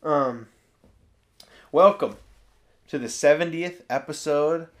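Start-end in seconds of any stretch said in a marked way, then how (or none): 1.7-4.7 formal host intro; official announcer. Acted. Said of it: "It was so official".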